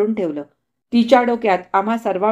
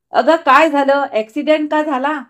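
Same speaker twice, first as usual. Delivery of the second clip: alarmed question; 5 semitones higher, 6 dB louder than usual. Acted. Brother alarmed at sister's state.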